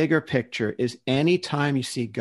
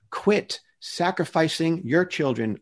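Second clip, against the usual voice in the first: raised-pitch plea, imitating God; pleading; 5 semitones higher than usual. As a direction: implore them to quit. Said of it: "You see God pleading with people".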